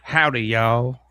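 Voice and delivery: lightly put-on Texas twang; a hint of Southern twang; twangy drawl. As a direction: greet them with a folksy Texas twang. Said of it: "with that twang".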